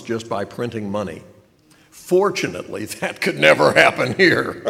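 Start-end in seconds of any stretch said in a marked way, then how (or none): 1.9-4.6 ironic. Acted. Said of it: "laughs after ironic remark".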